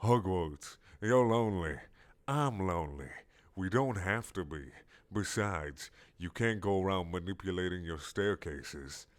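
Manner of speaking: sly giant squid murmuring. Acted. Squid voice in dialogue.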